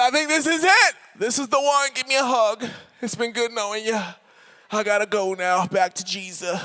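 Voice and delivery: hammed-up last words, sinking bit by bit; mock dying farewell. Hurt kid saying goodbye to mom, melodramatic and fading.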